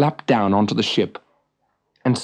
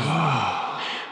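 relieved sigh; 2 semitones higher, 6 dB quieter than usual. Acted. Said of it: "The Vikings all sighed too".

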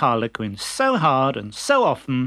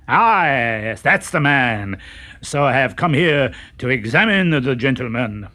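pompous fake doctor.

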